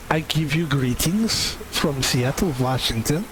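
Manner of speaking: lightly put-on German accent; bad German accent. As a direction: greet the crowd like a cartoon German. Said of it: "Now I'm doing German, I think".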